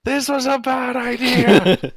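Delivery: slow, high, loud ghostly wail. Acted. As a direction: moan it from beyond the grave. Ghost voice from the grave.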